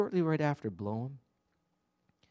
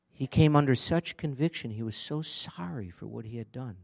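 ordinary talk

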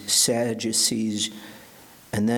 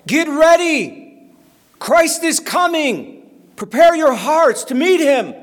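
high, booming prophet's shout; authoritative cry; 10 dB louder than usual. Acted. John the Baptist calling crowds to get ready, authoritative shout. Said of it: "that authoritative voice as he cries out".

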